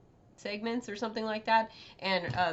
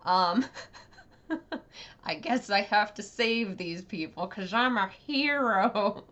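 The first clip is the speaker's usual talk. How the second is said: grudging hero, mildly hammed up; resigned to saving them, then swell on the last words; put-upon mock heroics; mock-reluctant hero; 4 dB louder than usual. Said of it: "I was just like".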